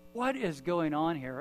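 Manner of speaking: slow, puzzled wondering, retold; bewildered. Man thinking to himself as he walks away, bewildered. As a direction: wonder it aloud, drawing the words out.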